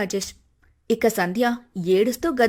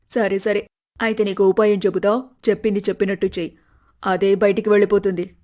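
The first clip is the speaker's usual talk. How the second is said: scheming mother; 3 semitones lower than usual. Acted.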